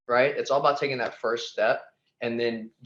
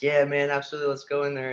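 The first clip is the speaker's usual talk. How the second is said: slightly raised, eager retold reply; pumped up; 4 semitones higher, faster than usual. Guest retelling his yes to the host's invitation, mildly pumped. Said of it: "I was super pumped up".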